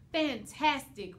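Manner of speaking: loud, slow roar of praise; a snowman roaring his delight, loud and slow. A narrator's reading. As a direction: roar it out with pride. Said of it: "roared the snowman".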